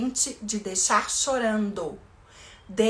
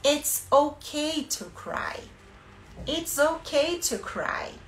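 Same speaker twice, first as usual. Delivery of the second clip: soothing parent; 4 semitones higher, slower than usual. Shown as a demonstration. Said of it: "A gente vai falar".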